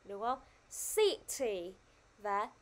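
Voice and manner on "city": "City" with the first syllable stressed. Shown as a demonstration. Teacher showing the class where "City" is stressed, first-syllable stress. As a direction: lean on the start of "City". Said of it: "cô đang nhấn mạnh vào âm C".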